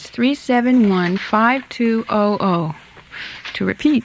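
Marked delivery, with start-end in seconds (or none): 0.0-2.7 slow, measured number for listeners to note; slow dictation. Real, not acted. Radio host giving listeners the phone number to call, slow dictation. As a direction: read out slowly, digit by digit.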